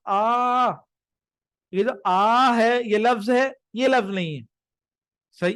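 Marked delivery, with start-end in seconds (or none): 0.0-0.7 long "aah" as if in pain; mock a drawn-out groan of pain; mild imitated cry of pain; demonstrated pain moan. Shown as a demonstration. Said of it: "اگر میں کہوں تکلیف کے وقت".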